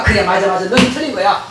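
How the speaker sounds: lightly voiced sneering devil, a touch low; a hint of a gloating devil agreeing; devil's voice. 마귀가 아픈 성도를 비웃으며 부추기는 가벼운 악마 목소리. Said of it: "그러면 마귀가".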